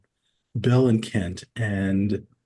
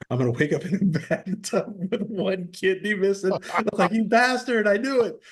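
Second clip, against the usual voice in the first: mock paranoid panic; 10 semitones higher than usual. Paranoid imagined kidney theft.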